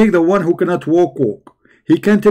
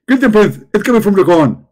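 higher, louder excited preacher impression; Zakir Naik; 3 semitones higher, 4 dB louder than usual. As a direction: lecture like a fired-up debating preacher. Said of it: "If we ask Zakir Naik".

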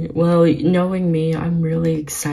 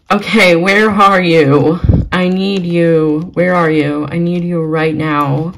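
loud, impatient searching call; excited urgency; 5 dB louder than usual. Real, not acted. Frantically searching for the new horse.

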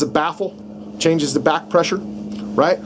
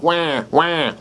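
mock fawn bleat; 3 dB quieter than usual. Shown as a demonstration. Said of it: "a fawn sound".

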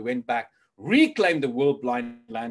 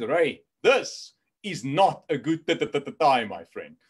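stutter; 4 dB louder than usual. Retold or imitated. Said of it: "I also developed a little stutter".

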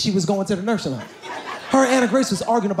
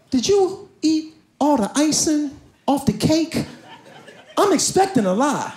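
slow suspicious question; 4 semitones higher than usual. Retold or imitated. Dad questions daughter sternly.

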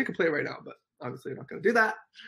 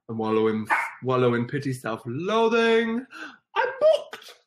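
Grinch quote; 5 dB louder than usual. Retold or imitated. Reciting Grinch schedule scene.

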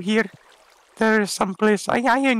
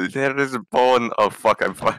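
very low, gruff alter-ego; deep mock voice; 10 semitones lower than usual. Alter-ego voice grumbling over a bone find.

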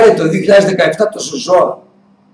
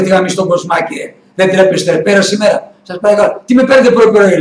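retold angry outburst; 3 semitones higher, 3 dB louder than usual. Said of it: "λέει".

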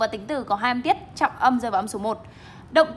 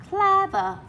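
Clever said higher with the stress on CLE; stress on first syllable; 8 semitones higher than usual. Shown as a demonstration. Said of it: "Trọng âm một này".

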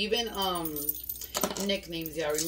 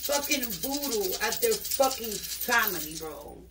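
slow, higher, indignant rant; outraged disbelief; 4 semitones higher, slower than usual. Real, not acted. Outraged at voodoo against family.

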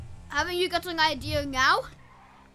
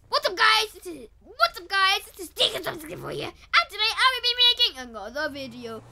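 bright hyped youtuber intro, quick; energetic demo intro; 2 semitones higher, 4 dB louder than usual. Shown as a demonstration. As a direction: pump it up for the viewers. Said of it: "listen to this voice".

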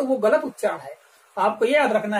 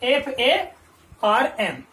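1 slow spelling out; much slower than usual. Shown as a demonstration. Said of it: "आपकी exercise में दिया है".

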